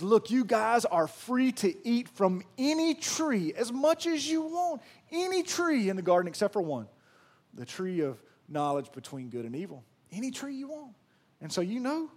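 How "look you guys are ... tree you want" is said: lightly voiced God. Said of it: "He says".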